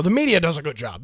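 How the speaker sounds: quick mock praise of the media, tongue in cheek; sarcastic. Host mocking critics who call the media fair, fast sarcastic. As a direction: toss it off fast as an obvious lie.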